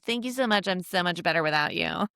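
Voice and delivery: mock-grateful, passive aggressive jab. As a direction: thank them sweetly while twisting the knife. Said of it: "in a passive aggressive".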